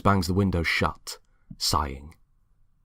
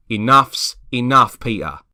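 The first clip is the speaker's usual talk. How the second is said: firm final word; 5 semitones higher, 11 dB louder than usual. Acted. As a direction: shut the argument down. James ending argument.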